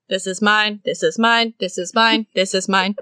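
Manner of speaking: matter-of-fact repeated claim, slightly low; deadpan mock thief helping herself; mock thieving. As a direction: claim each item in an even, repeated beat. Acting out the thief grabbing things.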